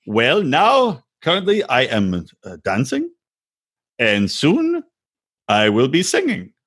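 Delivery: slow, halting life-plan answer; mock-earnest, deliberate delivery; imitating Biniam. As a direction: leave long pauses between each small ambition.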